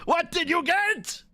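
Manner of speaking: excited. Shown as a demonstration. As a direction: ask again like a thrilled kid.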